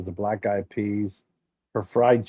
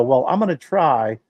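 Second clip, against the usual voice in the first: mocking tryhard cook; 3 semitones higher, 5 dB louder than usual. Mocking the cook who wants to change the recipe, mock earnest. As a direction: parody someone tinkering with the recipe. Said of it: "Don't go".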